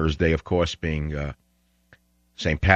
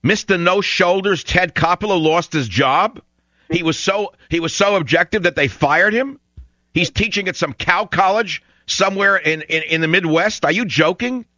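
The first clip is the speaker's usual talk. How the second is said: incredulous mockery; 8 semitones higher than usual. Real, not acted. Host mocks caller's choice, incredulous.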